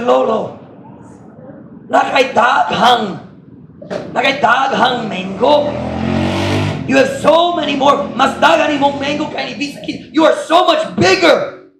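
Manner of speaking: a small sapling gasping up at his grandpa; excited little tree. Acted.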